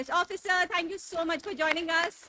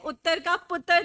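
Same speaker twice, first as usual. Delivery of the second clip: put-on playful Punjabi accent, a bit louder; 3 semitones higher, 6 dB louder than usual. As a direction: say it with a jokey Punjabi lilt. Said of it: "I'm sorry about my Punjabi accent".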